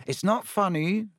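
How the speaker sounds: a touch of fierce offence. A narrator's reading. Ron objects to Hermione giggling at him, fierce. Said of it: "said Ron fiercely".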